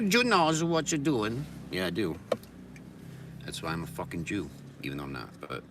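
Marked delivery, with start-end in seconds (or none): 0.1-1.5 high, loud, slow put-on voice; mock ominous tease. Teasing the listener in a high, slow put-on voice. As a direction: drag it out teasingly.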